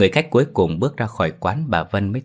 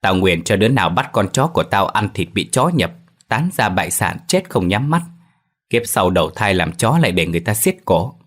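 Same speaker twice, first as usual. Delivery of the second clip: bitter curse. Acted. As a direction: spit the curse out like an old woman wronged. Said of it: "bà tức tối nguyền rủa".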